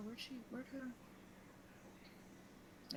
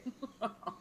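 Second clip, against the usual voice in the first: soft, short chuckle; small laugh; 3 semitones higher, 6 dB quieter than usual. Real, not acted. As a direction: chuckle lightly at your own miss. Player laughs at own missed shot.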